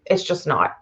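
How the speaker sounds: resigned hush, words nearly gone; fading to a hush. Real, not acted. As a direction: let the repeat die away to nothing. Repeat fading to near nothing.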